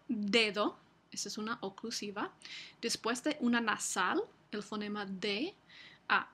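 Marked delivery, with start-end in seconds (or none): 0.1-0.8 dedo with a hard stop d; dedo, the d fully stopped; example word. Shown as a demonstration. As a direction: say dedo with a firm d. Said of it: "Por ejemplo".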